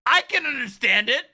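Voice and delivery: laughing while talking; words through a laugh. Real, not acted.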